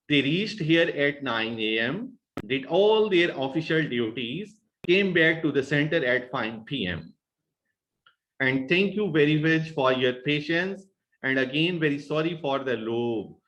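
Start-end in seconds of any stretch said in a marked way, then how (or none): 0.1-7.1 list-like phrasing, "nine A M" and "duties" left unfinished; middle-pitch intonation. Shown as a demonstration. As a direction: pause after "nine A M" and "duties", pitch held up until the end. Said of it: "Intonation is kept at a middle pitch to utter pauses".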